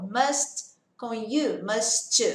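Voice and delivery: "must" and "you" run together into "mus-chu", slow; "must you" joined as one slurred chunk; linked must you. Shown as a demonstration. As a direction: blend the T of "must" into "you" as a CH sound. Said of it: "Também tem uma junção de som aí".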